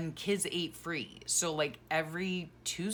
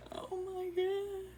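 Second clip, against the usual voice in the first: high emotional gasp. Real, not acted. Mother overwhelmed by photos of her babies, high.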